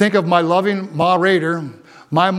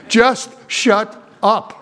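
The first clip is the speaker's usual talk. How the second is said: mama's retort; much slower than usual. Retold or imitated. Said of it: "Listen to my mama".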